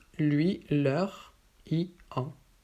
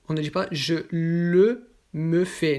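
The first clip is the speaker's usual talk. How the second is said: "le me" pushed louder as the mistake; wrong order stressed; 4 dB louder than usual. Shown as a demonstration. Teacher warning learners, stressing the wrong form. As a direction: lean on "le" to flag the error.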